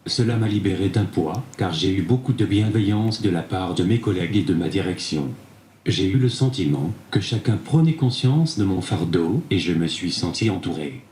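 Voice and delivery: synthetic tablet voice; text-to-speech reading. Real, not acted. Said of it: "c'est grâce à cette tablette". (voix de synthèse)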